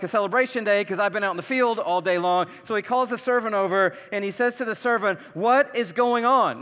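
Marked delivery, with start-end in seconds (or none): 5.3-6.6 slow, indignant what is going on; indignant demand. Retold or imitated. Older son to the servant, indignant. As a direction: demand it with an edge, drawn out. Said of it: "can you hear the tone in his voice?".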